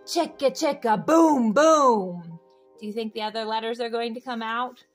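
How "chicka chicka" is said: plain reading voice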